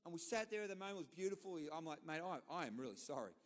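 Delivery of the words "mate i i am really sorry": mock apology. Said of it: "No, I didn't say that".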